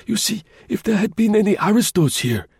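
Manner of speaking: put-on high, mild old voice, reasoning patiently; old concierge calmly reasoning; naive old man. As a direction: explain it simply like a guileless old doorman. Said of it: "he added naively".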